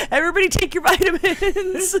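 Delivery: bright, high public reminder; mock announcement. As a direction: call it out like a cheery post. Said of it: "start just posting it on the, the Facebook group".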